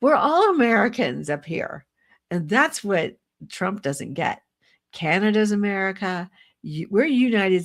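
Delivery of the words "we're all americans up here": raised, much higher insistent retort; protesters shouting back. Retold or imitated. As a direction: fire back at the heckler, loud and indignant. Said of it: "And they're like".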